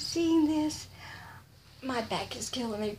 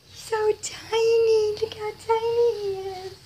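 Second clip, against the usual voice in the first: squealing delight; 9 semitones higher, 6 dB louder than usual. Real, not acted. First seeing the tiny doll, gushing high.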